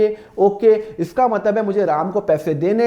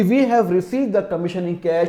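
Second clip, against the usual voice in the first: slow read-out; much slower than usual. Shown as a demonstration. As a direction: read the assumed statement carefully. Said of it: "मैं assume करूंगा कि".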